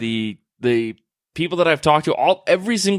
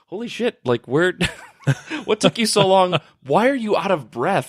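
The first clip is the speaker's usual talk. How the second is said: surprised; 6 semitones higher than usual. Retold or imitated. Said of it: "they were like".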